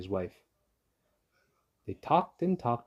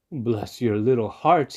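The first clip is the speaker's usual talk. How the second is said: slow, loud grateful cry; 7 dB louder, slower than usual. Acted. Fox on his knees thanking the mice, slow loud cry. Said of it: "he cried".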